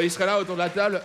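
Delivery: usual speaking voice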